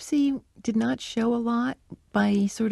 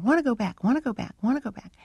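mildly higher repeated plea, imitating a nagging parrot; insistent parrot; 4 semitones higher, faster than usual. Researcher retelling her parrot's nagging at home, insistent. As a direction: imitate a parrot pleading over and over. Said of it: "he was just going on and on".

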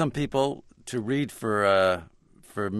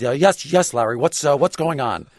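Steinbrenner voice; 4 semitones higher, 5 dB louder than usual. Retold or imitated. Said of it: "And he said".

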